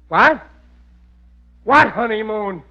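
high surprised cry; startled to hear her; Riley surprised on the phone. Acted.

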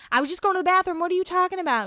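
high-pitched mock protest; high, put-on defensive voice; indignant retort. Acted quarrel, Heidi answering back.

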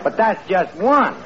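words pushed out through a laugh, slowed; chuckling while conceding the point. Real, not acted. The speaker caught out, laughing.

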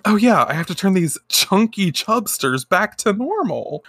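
can't keep a straight face; laughing through it. Real, not acted. Retelling Sailor V's line about the chubsters, laughing through it. Laughing while quoting her.

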